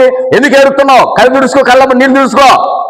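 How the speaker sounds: high, insistent wife's voice; imitated urging wife. Wife to her crying husband, imitated urging. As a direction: act out a wife briskly consoling. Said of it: "భార్య ఏమన్నది".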